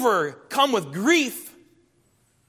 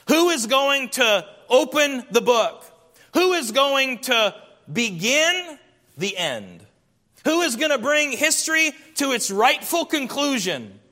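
urgent questioning; 6 semitones higher than usual. Acted. Preacher voicing John's urgent questions.

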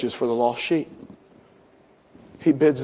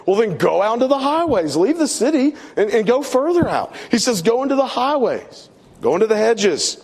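master urging servant to go further out, pitch raised high; pitched-up, pressing order to search farther; urgent master's command; 7 semitones higher than usual. Retold or imitated. Master sends servant to the highways, urgent high command. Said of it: "And the master says".

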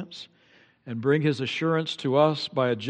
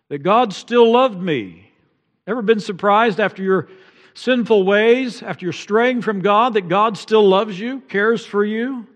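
impassioned appeal; 6 semitones higher, 4 dB louder than usual. Real, not acted. Preacher urging the congregation that God still loves them, impassioned. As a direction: plead with the listeners.

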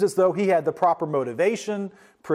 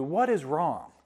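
gentle loving father; 4 dB quieter, slower than usual. Acted. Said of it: "in a loving way".

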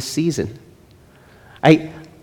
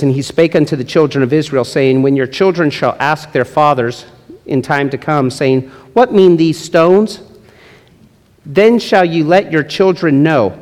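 scripture reading. Acted. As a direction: read it out like holy writ, unhurried. Reads scripture aloud.

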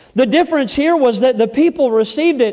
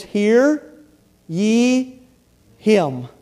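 voice of God; 5 semitones lower, 3 dB quieter, much slower than usual. Retold or imitated. God commands, slow and low.

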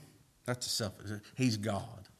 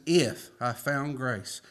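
humble; much slower than usual. Retold or imitated. Humble quote, slowed.

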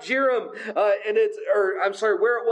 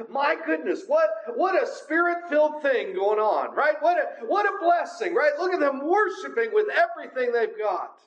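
acted admiration; 5 semitones higher than usual. Imagined onlooker admiring the worship procession.

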